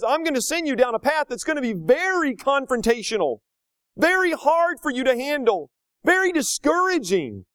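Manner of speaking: voicing the Lord. Voicing the Lord's warning.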